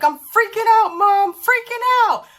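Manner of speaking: imitating a frightened son in a high voice; panicked little boy. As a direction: play the scared six-year-old wailing to mom. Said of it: "He's like".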